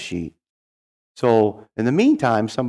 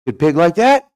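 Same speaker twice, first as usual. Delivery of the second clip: lightly voiced tribal leader, high and louder; 9 semitones higher, 7 dB louder than usual. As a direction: set up the punchline emphatically. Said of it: "Tribal leader says".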